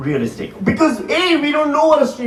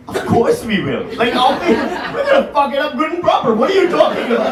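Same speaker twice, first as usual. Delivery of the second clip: laughing mock shout; 5 semitones higher than usual. Retells his own laughing reply.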